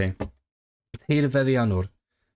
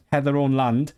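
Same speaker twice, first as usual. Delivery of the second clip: English tinged lightly with Welsh; slight Welsh accent; 2 semitones higher than usual. Shown as a demonstration. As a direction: repeat it with a faint Welsh lilt. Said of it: "a tiny tinge of a Welsh accent".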